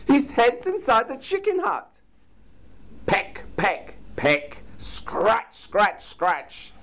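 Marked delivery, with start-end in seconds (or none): 0.1-2.0 high, loud goose voice; high urgent goose voice; goose's alarm. A narrator's reading. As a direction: warn them urgently as the goose. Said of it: "yelled Goose".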